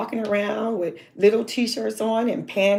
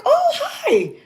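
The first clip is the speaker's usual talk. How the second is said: high, louder sing-song greeting; bubbly girl; 6 dB louder, slower than usual. Retold or imitated. Teen girl greeting the stranger at the door, chirpy and high. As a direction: play a chirpy happy-go-lucky teen. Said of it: "And she was like".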